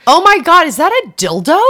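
high, loud shocked gasp. Retold or imitated. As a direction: blurt it out in disbelief. Shocked discovery retold.

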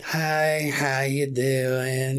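slow, lifeless imitation of a sad clerk; downtrodden greeting. Host imitates the sad Sunoco clerk, slow and downtrodden. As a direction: drag out the hello like she's given up. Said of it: "Real downtrodden".

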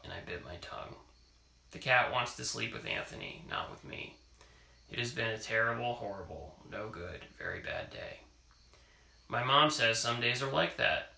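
reading a picture book aloud; story reading. Acted. Parent reading a picture book to child, storytelling voice. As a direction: read it to a child at bedtime.

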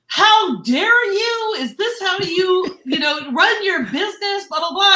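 huffy agent demanding how dare you; indignant quote. Retold or imitated. Retelling the irate agent's email, mock indignant. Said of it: "that is like".

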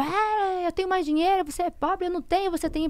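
put-on high, childish sing-out of a boast; mocking taunt. Woman retelling her ex's boasts about money, mocking taunt.

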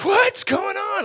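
high, slow, bewildered squeak; a high startled question; confused disciples. Acted. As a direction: sound totally lost and confused.

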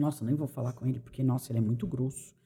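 low, hushed mock-wary aside; intimidated. Coworker avoiding the rude person at work, hushed and wary. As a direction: drop low and soft, as if avoiding someone. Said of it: "as pessoas têm medo dela".

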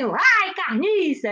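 playful mock yell of disgust; mock alien yell. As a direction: yell "Ai" down from the sky, then "carniça" with a falling tune. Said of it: "eles gritam lá assim".

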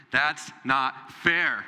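put-on drawn-out, slow whine of a child; whiny child. Preacher mimics a child complaining it's not fair. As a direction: stretch out "fair" like a sulking kid. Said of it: "The cry of the American child".

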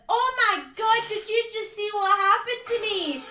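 high, loud gushing exclamation; a woman gushing loudly to her friend in the cinema; mock loud gushing. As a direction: gush loudly like she wants the whole room to hear. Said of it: "she was literally shouting".

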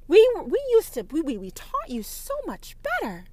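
high, loud outraged mock voice; mocking offended Christian. Offended Christian scolding the prophetess, high mock outrage. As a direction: ham up a pearl-clutching churchgoer. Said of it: "a Christian gets offended".

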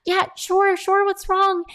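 very high, loud startled concern; concerned alarm. Retold or imitated. Kind coworker answers trainee's plea for help, alarmed. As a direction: jump up in pitch, alarmed for a friend.

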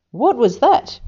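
high, loud scared question; frightened wail. Acted. Little Kiwi startled by the booming noise, frightened wail. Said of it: "wailed the little one".

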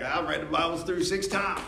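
puffed-up boast about reading the Bible; boastful bragging. Retold or imitated. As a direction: brag it like a proud scorekeeper. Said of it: "Why'd you say it like that?".

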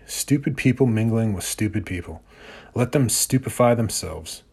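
deliberate, defiant poem reading; reading a Bukowski poem. Acted. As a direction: read it like a loner's manifesto. Reads a Bukowski piece.

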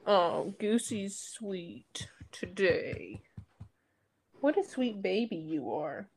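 slow, soft cooing to a pet. Real, not acted. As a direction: coo softly. Baby talk to the dog.

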